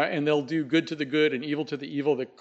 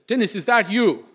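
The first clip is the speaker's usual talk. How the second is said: higher, hushed, slow call into the dark; Snowbird calling to the dead; 7 semitones higher, 3 dB louder, slower than usual. Acted. Snowbird calling his dead friend at the door, high and slow. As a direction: call out hopefully to a ghost. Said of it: "And Snowbird says".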